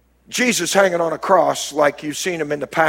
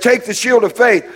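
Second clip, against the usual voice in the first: higher, shouted "Take the shield of faith"; preached command; 5 semitones higher than usual. Acted. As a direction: call it out to the congregation. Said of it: "So he said".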